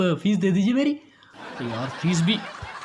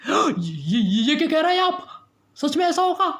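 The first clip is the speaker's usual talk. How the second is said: high, stammering disbelief; alarmed; 7 semitones higher than usual. Acted. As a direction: ask in rising panic. Alarmed by doctor's frightening joke. (घबराकर ऊँची आवाज़ में)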